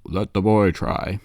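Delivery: slow, lightly voiced bearded elder; bearded man. Storyteller voices bearded man to a crowd, slow authority. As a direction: weigh it out slowly, mock authority. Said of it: "the bearded dude's like".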